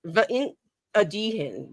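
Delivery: "Vaint Adihin" with "Vaint" rising, "Adihin" falling; copied Welsh pronunciation. Shown as a demonstration. Reporting what they're saying, "Vaint Adihin" rising then falling. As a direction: lift on "Vaint", then drop through "Adihin". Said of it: "they're saying".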